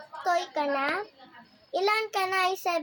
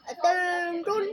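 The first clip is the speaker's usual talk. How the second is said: drill command; 6 dB louder, slower than usual. Retold or imitated. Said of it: "Ganun din ako sa school ko".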